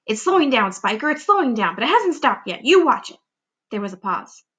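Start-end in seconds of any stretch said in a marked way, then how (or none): 0.1-3.2 insistent aunt. Acted. Aunts arguing.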